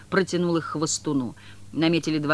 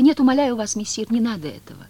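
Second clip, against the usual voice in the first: louder, higher urgent plea; pleading cry; 6 semitones higher, 6 dB louder than usual. A narrator's reading. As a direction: beg him to stop. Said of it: "воскликнула Маргарита". (Маргарита умоляюще восклицает)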